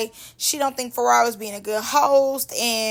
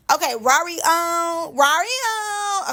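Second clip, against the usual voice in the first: higher put-on stalling voice; Ferrari; 5 semitones higher, slower than usual. Vlogger mimicking a host asking what to say, high drawn-out stalling. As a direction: draw out the ums, imitating her. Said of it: "And Ferrari be like".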